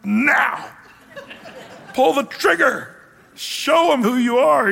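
high, pushy, laughing nudge; mother laughingly urging her son to reveal himself; eager urging mother. Retold or imitated. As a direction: egg him on to show his power. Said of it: "She's saying".

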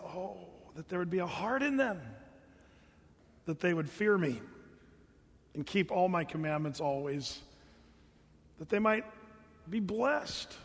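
softly lovingly longing, like a heartbroken father; loving sigh. Acted. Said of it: "the Lord just lovingly saying".

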